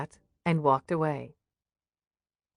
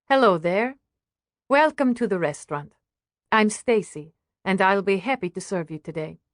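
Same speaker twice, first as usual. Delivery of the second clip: lightly voiced cheerful hostess; friendly waitress. Waitress welcomes new guests, lightly cheerful. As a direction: greet guests in a slightly lifted, welcoming voice. Restaurant owner greets guests.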